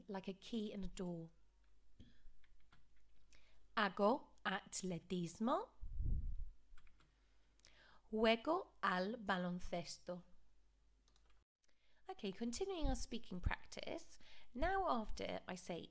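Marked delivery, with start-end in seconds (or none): 3.8-10.2 projected model phrases. Shown as a demonstration. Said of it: "repeat each of the phrases after me".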